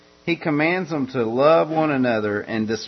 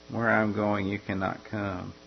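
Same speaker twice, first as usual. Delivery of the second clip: soft repeat; 3 semitones lower, 7 dB quieter than usual. Acted. Preacher echoing Jesus's farewell softly to listeners. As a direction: repeat it softer, letting it sink in.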